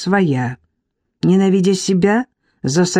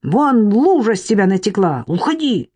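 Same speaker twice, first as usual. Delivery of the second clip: angrier repeat; 3 semitones higher than usual. Acted. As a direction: throw him out for good. Irka driving husband out.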